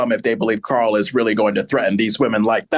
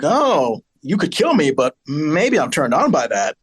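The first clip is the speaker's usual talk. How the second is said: mock terrified flirting. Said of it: "that terrified flirting".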